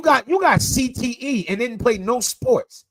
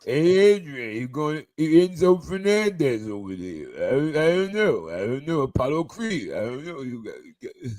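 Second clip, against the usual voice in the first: Rocky Balboa impression; 3 semitones lower, 3 dB quieter than usual. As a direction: slur it like a dazed boxer. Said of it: "sound like fucking Rocky Balboa".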